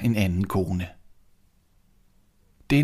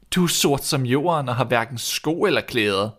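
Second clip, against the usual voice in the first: scornful; 5 semitones higher than usual. Acted. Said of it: "spurgte hun hånligt".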